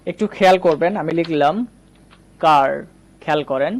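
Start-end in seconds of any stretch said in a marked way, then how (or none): 2.4-2.7 কার as "kaar", long open AH; AH vowel. Shown as a demonstration. Teacher models A before R, AH vowel. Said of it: "আ এর মতো উচ্চারণ করব".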